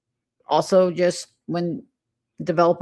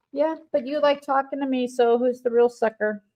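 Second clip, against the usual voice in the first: higher, smug mock voice; mocking taunt; 6 semitones higher than usual. Mocking the company laughing at users, lightly voiced smug sneer. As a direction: sneer it like they're laughing at you. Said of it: "they laugh in our face".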